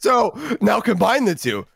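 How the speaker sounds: loud, excited laugh into the line; excited shout. Real, not acted. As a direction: burst out laughing and push on loudly.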